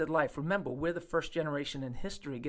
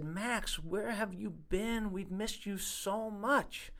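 tender greeting; 5 semitones higher, 5 dB quieter, slower than usual. Retold or imitated. Greeting long-missed old patient.

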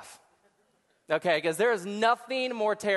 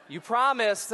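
laughing; 2 semitones higher than usual. Real, not acted. Demands laugh from audience.

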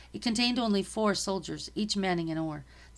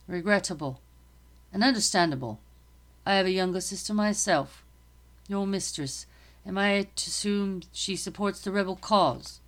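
lightly voiced officer, a touch louder and formal; a hint of a stiff, polite army captain; British captain; 4 dB louder than usual. Captain questioning the girl, lightly formal and firm.

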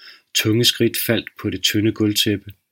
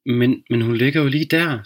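inner scream; 4 semitones higher than usual. Acted. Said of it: "skreg pigens indre".

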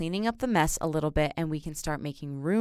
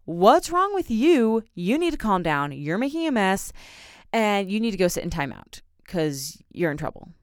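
mock scolding; 3 semitones higher than usual. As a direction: play the impatient parent scolding a child. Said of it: "yell at this kid and scold them".

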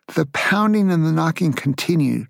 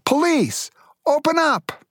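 retold police shout; 12 semitones higher than usual. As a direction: yell it like a cop banging on the door. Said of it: "someone shouting".

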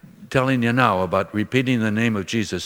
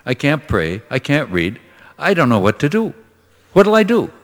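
anxious mother; 2 semitones higher than usual. Retold or imitated. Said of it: "She said".

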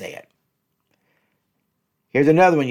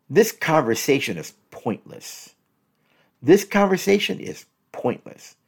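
mildly condescending dismissal; 5 semitones higher than usual. Shown as a demonstration. Coach demos a put-down in a couple's argument, mildly condescending. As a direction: dismiss them, talking down a little. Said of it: "Boy, that's so condescending".

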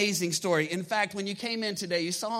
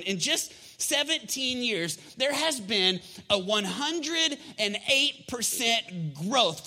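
raised, punchy sermon delivery; emphatic preaching; 4 semitones higher than usual. Real, not acted. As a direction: preach it with big stretched key words. Preacher builds up church growth figures.

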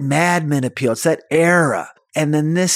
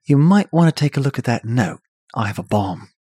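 D B Cooper; 3 semitones lower than usual. Acted. Hijacker discreetly warning the stewardess, in a British accent. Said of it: "that's a good accent".

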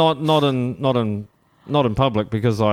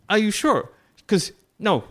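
much higher imitation of a doubting American; retold sceptical shopworker; 10 semitones higher than usual. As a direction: playfully mimic her disbelief, pitched up. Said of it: "And she's like".

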